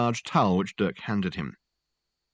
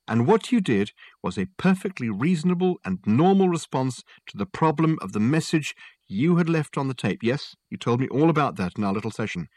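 Dirk probing; 5 semitones higher than usual. Acted.

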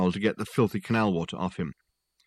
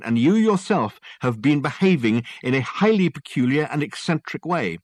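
higher-pitched, insistent theorist; Dirk expounding; 4 semitones higher than usual. Acted. Detective arguing his theory to a sceptical client, insistent. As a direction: lay out a grand theory with emphatic key words.

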